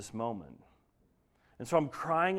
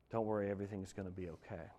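soft, quick hush of a whisper; a whisper in the midst of the storm; small whisper; 5 semitones lower, 11 dB quieter, faster than usual. Retold or imitated. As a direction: breathe it gently, barely there. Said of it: "But just a whisper".

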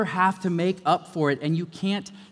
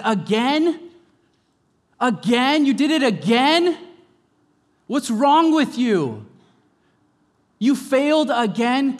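exasperated scold; 10 semitones higher, 9 dB louder than usual. Acted. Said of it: "He never comes to you and says".

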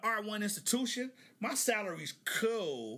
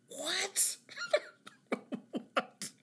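shocked high what; 10 semitones higher than usual. Real, not acted. Shock at salary.

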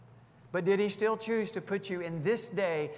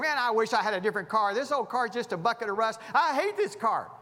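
fast, louder grumbling that rises to a higher whine; hammed-up car owner griping; mock complaining; 3 semitones higher, 5 dB louder than usual. Ungrateful driver griping about his rusty car, mock whine.

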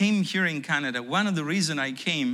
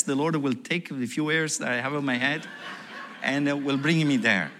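laughing; 3 semitones lower than usual. Real, not acted. Laughing at his old boast.

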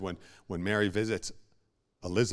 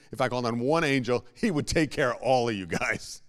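faster, louder retelling of Jesus' words; Jesus quoted again; 4 semitones higher, 9 dB louder than usual. Retold or imitated. Preacher voicing Jesus at his arrest, louder and faster. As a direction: punch it quicker, with more force. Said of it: "Remember, he was being arrested".

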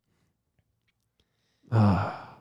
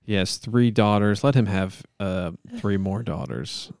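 measured, solemn monotone plea; earnest-sounding improvised prayer; mock prayer; 2 semitones lower than usual. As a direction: pray aloud with halting mock sincerity.

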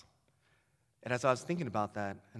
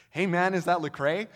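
louder, higher call to a stranger; 4 semitones higher, 6 dB louder than usual. Retold or imitated. Speaker calls out to the utility worker, loud and eager. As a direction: hail him across the yard.

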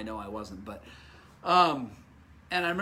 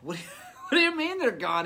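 laughing disbelief; 8 semitones higher, 4 dB louder than usual. Retold or imitated. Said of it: "I'm like".

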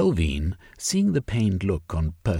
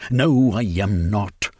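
firm, louder, slowed denial; retort; 2 semitones higher, 7 dB louder than usual. Acted. Velvein snapping back at Sylvia's accusation, louder and slow. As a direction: shoot it back at her. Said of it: "he retorted".

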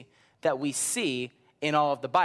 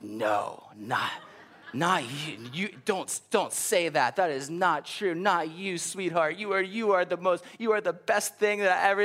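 doting grandmother; 3 semitones higher than usual. Retold or imitated. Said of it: "that's just the way that she would speak".

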